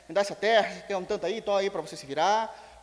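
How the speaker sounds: king giving orders. Retold or imitated. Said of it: "sabe como que é rei falando".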